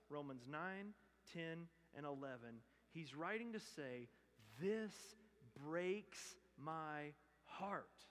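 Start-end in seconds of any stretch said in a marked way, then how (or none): 4.6-8.0 slow, aching and heavy; heartbroken. Retold or imitated. Paul writing to the church, slow and heartbroken. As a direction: let each word break slowly. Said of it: "Paul writes these chapters with tears".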